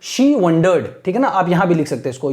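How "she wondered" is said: very slow read with a rise on how; slow teacher demo; slow question reading. Shown as a demonstration. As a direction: read the question slowly for students to copy. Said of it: "ऐसे पढ़ते हैं".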